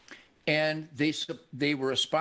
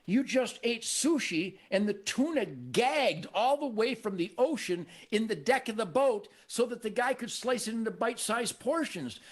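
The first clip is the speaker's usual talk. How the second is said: mocking retort; 4 semitones higher than usual. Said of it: "I'm going".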